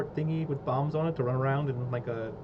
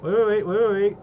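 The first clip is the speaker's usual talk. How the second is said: higher, louder urgent repeats; urgent excited; 6 semitones higher, 8 dB louder than usual. Real, not acted. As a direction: rush in, hold on. Urgent realization.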